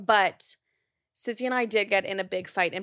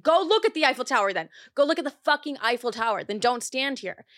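snapping back; 3 semitones higher than usual. Retold or imitated. Sister tells Sissy off at the Eiffel Tower, mock angry. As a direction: throw it back at her, fed up.

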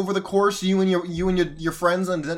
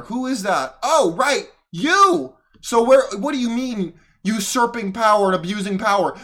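indignant rant; 3 semitones higher, 3 dB louder than usual. Real, not acted. Ranting at Biden on video.

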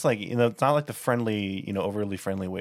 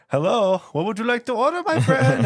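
loud, high-pitched over-friendly greeting; cashier yelling; 7 dB louder than usual. Retold or imitated. Cashier greeting a burger customer, imitated yelling. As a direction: boom out an overly jolly welcome, way up high. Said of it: "he was, like, yelling".

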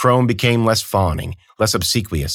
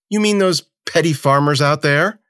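higher, scornful sneer; 8 semitones higher than usual. Acted. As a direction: sneer out the question. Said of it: "A sneer crossed Sikakeu's lips".

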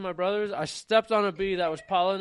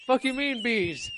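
incredulous reply; 5 semitones higher, slower than usual. Retold or imitated. Acting Cody Ray's answer about bees, high incredulous voice. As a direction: stretch it out, thin and baffled.

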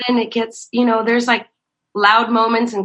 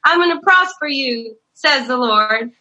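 mock prophecy; 6 semitones higher than usual. Lady prophesying over the church, mock proclaiming. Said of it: "she starts giving the prophecy".

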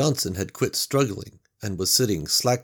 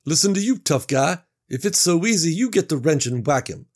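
higher, louder taunting comeback; sarcastic Mac; 8 semitones higher, 6 dB louder than usual. Acted. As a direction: throw it back at him. Mac throws it back.

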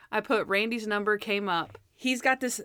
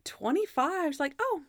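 high, awkward number announcer; badly acted TV number call; 9 semitones higher than usual. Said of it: "Her bad acting is so funny".

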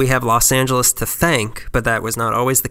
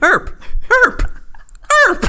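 burping the words; 4 dB louder than usual. Pretend. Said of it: "Sounds like burp".

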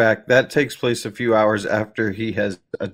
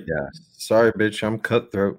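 lower, slow, tough guy; 4 semitones lower, 4 dB quieter, slower than usual. Retold or imitated. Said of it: "He should have been like".

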